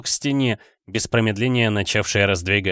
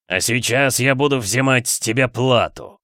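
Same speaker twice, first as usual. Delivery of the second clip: sinister villain laugh. Acted. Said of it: "Зловеще расхохотался демон".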